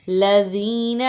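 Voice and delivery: لذین with a gentle th-as-in-this; soft dhal. Shown as a demonstration. Teacher showing students the soft dhal in لذین. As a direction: ease the ذ softly in لذین. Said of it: "ذال کو نرمی سے پڑھنا ہے".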